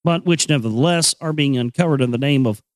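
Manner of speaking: measured, even book-reading voice; reading aloud. Acted. Reading chapter three of the Kybalion to listeners in a measured voice. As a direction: read the old text steadily and clearly.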